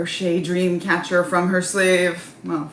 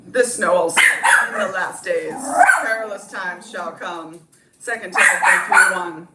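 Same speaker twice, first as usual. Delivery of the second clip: a loud, boastful Trump impression; 3 semitones higher, 4 dB louder than usual. Trump boasts to his rally crowd, loud and bragging. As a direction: brag to the crowd like a rally speech. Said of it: "Enter Trump".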